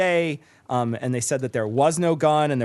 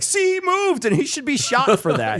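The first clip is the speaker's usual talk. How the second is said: mocking cop logic; 9 semitones higher than usual. Mocking cops' reasoning.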